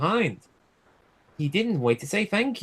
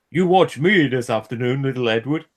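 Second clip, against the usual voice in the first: boasting; 6 dB louder than usual. A narrator's reading. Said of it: "he boasted".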